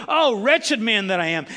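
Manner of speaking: loud anguished lament; Paul mourning himself, loud. Retold or imitated. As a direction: cry it out in despair. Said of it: "He goes".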